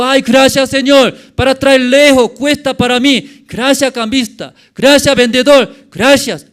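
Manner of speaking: high, loud, gushing thank-yous; effusive thanks. Acted. Preacher voicing grateful temple customers thanking the money changers, effusive.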